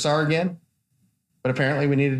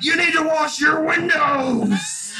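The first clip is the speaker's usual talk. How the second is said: crazy lady; 12 semitones higher, much slower than usual. Retold or imitated. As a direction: ham up the strange woman, drawn out. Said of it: "she's like".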